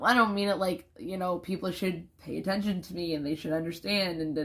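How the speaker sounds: normal talking voice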